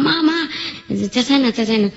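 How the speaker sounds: high call of mother with a laugh through it; giggling child's plea to an angry mom. Retold or imitated. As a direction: beg mom to stop shouting, giggling.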